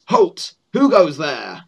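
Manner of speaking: a hint of a formal sentry challenge; lightly voiced guard calling a halt; goblin guard. Goblin guard stops approaching adventurers, lightly voiced challenge. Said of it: "stopped by a goblin guard".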